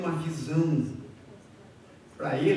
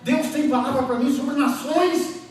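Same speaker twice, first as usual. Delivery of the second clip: loud, higher-pitched preacher's voice; forceful preaching; 6 semitones higher, 7 dB louder than usual. Real, not acted. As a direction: preach it out to the congregation, loud and urgent.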